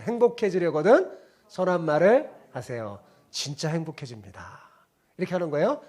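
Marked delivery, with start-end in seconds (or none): 0.0-4.6 call and response. Shown as a demonstration. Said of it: "따라해보세요".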